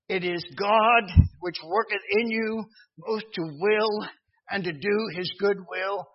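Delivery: preaching. Real, not acted. Preacher quoting scripture with force.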